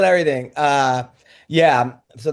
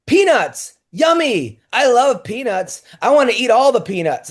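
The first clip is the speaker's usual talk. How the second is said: put-on higher, a touch of childish delight; lightly voiced little girl; 4 semitones higher than usual. Daughter mishearing dad in the bath, lightly mimicked child's delight. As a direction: imitate a small child delighted by food.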